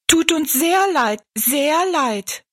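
high, squeaky chorus of little people; chirping dwarfs. Acted. The dwarfs echo the giant's apology, high squeaky voices. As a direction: pipe it up high like tiny folk. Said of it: "echoten die Zwerge".

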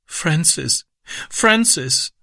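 high, tearful cry of his name; sobbing. A narrator's reading. Little sister sobbing as her brother leaves, high. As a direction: sob his name, clinging. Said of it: "schluchzte sie".

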